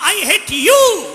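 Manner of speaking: high, loud, stretched-out cry; shouted hate; angry yell. Acted. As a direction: hurl it at the trees. Boy yells in the forest.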